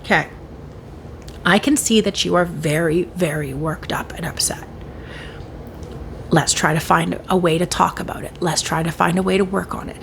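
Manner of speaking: soothing an upset partner; calm de-escalation. Shown as a demonstration. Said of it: "not get all worked up and say".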